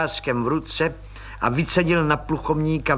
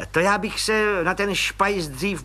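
high, sly little cop with a suspicious smile; distrustful smile; 7 semitones higher than usual. Acted. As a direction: smile but doubt him. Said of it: "s nedůvěřivým úsměvem".

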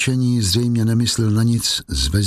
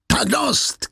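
much higher sharp cry of fury; mock angry yell, pitched high; angry shout; 13 semitones higher than usual. A narrator's reading. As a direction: bark it out in rage. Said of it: "křikl Javert vztekle".

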